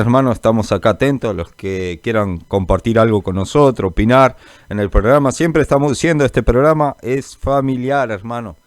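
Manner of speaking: ordinary talk, nothing marked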